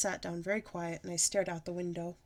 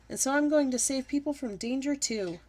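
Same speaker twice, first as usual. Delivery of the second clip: hollering; 5 semitones higher, 4 dB louder than usual. A narrator's reading. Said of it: "I hollered".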